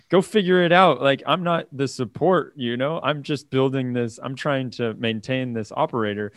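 lightly imitated Russian accent; a hint of a Russian accent, dismissive; Perconi's Russian accent. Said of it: "in his Russian accent".

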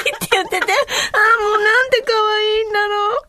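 mother remembering her small son's voice, cooing high; doting coo. Real, not acted. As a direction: melt at the memory, voice up high.

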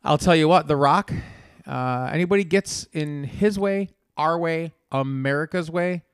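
a hint of The Rock trash-talking; Rock speech. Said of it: "Everybody knows the speech of The Rock".

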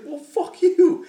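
very high, very loud, slow hammed-up yell; mock road-rage scream; mock shouted insult. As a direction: drag out the insult at full volume. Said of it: "And he's like".

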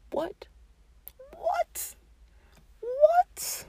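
climbing, incredulous "What?"; disbelief. Real, not acted. Reacting to romance haters with rising disbelief.

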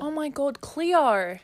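drawn-out Aussie "Cleo"; Australian accent. Shown as a demonstration. Repeating the co-host's prompt successfully, Australian accent. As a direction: copy the phrase in an Australian accent. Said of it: "There you go".

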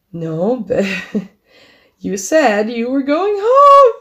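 can't believe it, laugh as you object; laughing disbelief. Real, not acted. To the friend who said he'd walk home, laughing exasperated protest.

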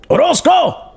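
high-pitched, drawn-out name call; excited shout-out. Real, not acted. Streamer hailing a donor by surname, excitedly. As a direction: holler the name in delight.

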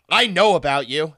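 imitating a loud accuser; retold loud accusation. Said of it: "that loud".

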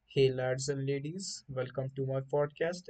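slow, soft sexy podcast voice. Retold or imitated. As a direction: imitate a slow, soft sexy radio host. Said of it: "the people like the sexy voice".

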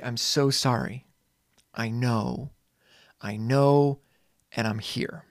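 gentle comfort. Retold or imitated. Comforting a heartbroken kid.

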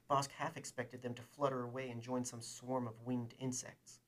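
steady, even read-aloud narration; story narration. A narrator's reading. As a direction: read the scene like an audiobook narrator.

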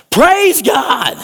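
high, loud shout of praise; a leper's jubilant high shout. Acted. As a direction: throw it up to heaven. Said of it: "He shouted".

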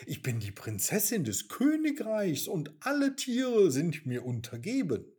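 scolding. Acted. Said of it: "schimpfte Mimi".

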